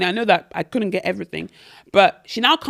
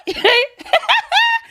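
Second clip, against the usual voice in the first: high laugh; 4 dB louder than usual. Real, not acted. Laughing at her own retelling.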